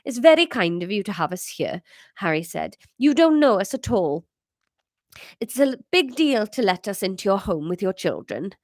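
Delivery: lightly Welsh Harry; polite mild Welsh accent; Harry thanking hosts in a Welsh accent. Acted. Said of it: "sort of normal Welsh".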